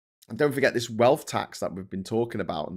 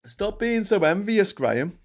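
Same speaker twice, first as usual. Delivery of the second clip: higher, slow, condescending scold; mock scolding; 9 semitones higher, 4 dB louder, slower than usual. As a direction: talk down to him, mock-patronising. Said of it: "if I bring that up".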